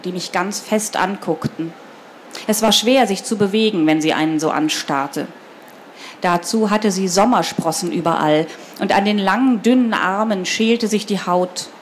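put-on children's book read aloud, measured and clear; storyteller's even delivery with lightly voiced dialogue; story narration. A narrator's reading. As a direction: read the story to a young audience.

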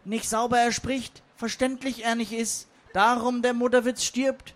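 strained little sage's croak; Yoda. Acted. Yoda calls from the back about the dying joke, croaky impression. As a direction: do a Star Wars master impression, phrase by phrase. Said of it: "rief von weiter hinten Meister Yoda".

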